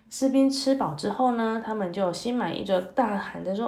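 put-on lively, expressive story voice for kids; storytelling to children. A narrator's reading. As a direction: read it like a bedtime tale for little ones.

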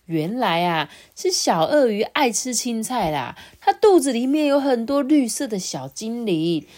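sing-song storyteller, stretching key words; children's storytelling. Acted. Adult tells a child how the vegetables grew, storytelling. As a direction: tell it to a little listener with swooping phrases.

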